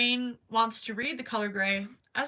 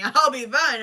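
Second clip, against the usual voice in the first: laughing; 2 semitones higher, 11 dB louder than usual. Real, not acted. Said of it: "Trust me".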